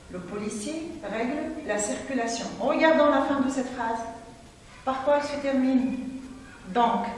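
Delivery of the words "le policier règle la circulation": quiet second reading; softer repeat. Shown as a demonstration. Teacher repeating the sentence for pupils, softly. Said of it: "Commençons par la première".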